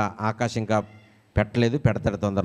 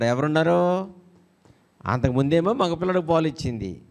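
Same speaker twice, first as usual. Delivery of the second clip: usual speaking voice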